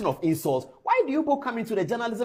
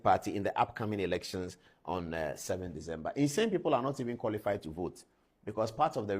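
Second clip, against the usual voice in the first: lower, even read-aloud of a report; news read-out; 9 semitones lower, 4 dB quieter than usual. Acted. Host reading a journalists' association statement to viewers, low measured read-out.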